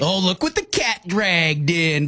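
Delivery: slow, dry sarcastic greeting. Shown as a demonstration. Co-host greeting a latecomer with slow sarcasm. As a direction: tease a latecomer with mock disdain. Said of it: "Very sarcastic".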